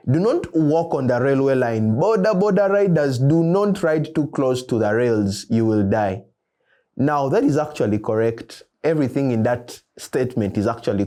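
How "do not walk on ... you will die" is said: lightly voiced railway warning, pitched up in places; loudspeaker announcement. Loudspeaker warning people off the railway line, lightly imitated announcement. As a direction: call out a warning like a public announcement. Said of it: "an interesting loudspeaker".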